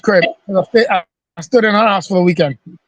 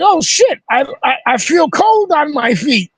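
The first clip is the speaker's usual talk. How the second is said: startled surprise; 5 semitones higher than usual. Retold or imitated. Discovers soles gone outside.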